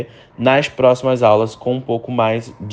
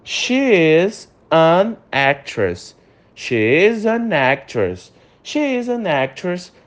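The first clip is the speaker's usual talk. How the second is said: slow drill of "an actress"; slow model reading; 3 semitones higher, much slower than usual. Shown as a demonstration. Teacher modelling an example slowly for students. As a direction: read slowly, spaced out. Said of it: "segundo exemplo".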